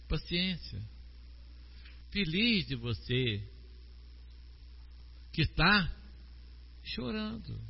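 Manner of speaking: soft, tender consoling voice; comforting counselor. Retold or imitated. Counselor comforts a grieving believer, softly and tenderly. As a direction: soothe a crying person gently. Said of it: "e diz pra você".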